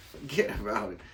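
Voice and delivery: badly faked New York accent with a laugh. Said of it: "That was a bad New York accent".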